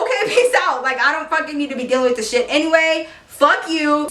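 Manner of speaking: high, breezy brush-off with a laugh; girl blowing off her boyfriend, high and flippant; dismissive kiss-off. Retold or imitated. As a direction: wave him away without caring.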